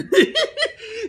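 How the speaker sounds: laughing. Real, not acted. Laughs at the lost bone.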